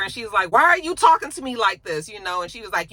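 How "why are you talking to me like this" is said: higher, louder indignant comeback; indignant mock protest. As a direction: act out her affronted challenge. Acted argument with yelling man.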